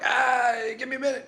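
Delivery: loud, high flustered yelp; mock panic. Flustered father stalls doctor, retold.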